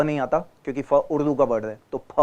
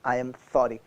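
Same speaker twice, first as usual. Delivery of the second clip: sincere apology; 4 semitones lower, much slower than usual. Real, not acted. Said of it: "मेरी गलती हो गई".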